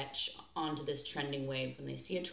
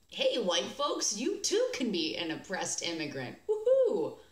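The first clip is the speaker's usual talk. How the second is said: mock ad cheer; 3 semitones higher, 4 dB louder than usual. Mocking the ad's message.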